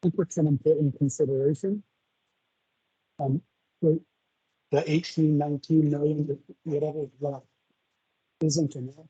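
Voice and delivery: muffled, like a face buried in fur; muffled mic. Real, not acted. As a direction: voice muffled through a bad mic. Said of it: "you're muffled for some reason".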